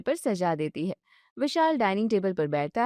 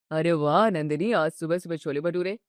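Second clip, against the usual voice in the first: lower, sulky complaining husband voice; grumpy husband; 5 semitones lower than usual. Acted. Husband grumbling at his wife over dinner, low and sulky. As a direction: whine about dinner like a tired, spoiled son.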